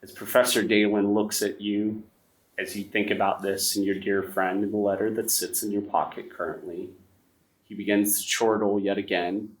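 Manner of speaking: steady storyteller's narration over music; story narration. A narrator's reading. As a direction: lay out the backstory like a campfire tale.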